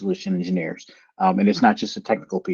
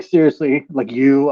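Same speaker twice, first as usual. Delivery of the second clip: higher, louder incredulous question; 4 semitones higher, 6 dB louder, slower than usual. Retold or imitated. Talking to Dave, higher louder incredulous question. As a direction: half-shout of mock amazement. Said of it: "I was like".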